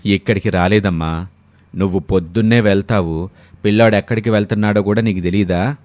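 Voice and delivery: lightly voiced older in-law, mildly reproachful; chiding father-in-law. Father-in-law figure chides her.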